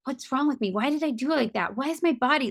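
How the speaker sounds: mock exasperated self-questioning, pitch lifted; self-blaming. Voicing a client's frustrated inner critic.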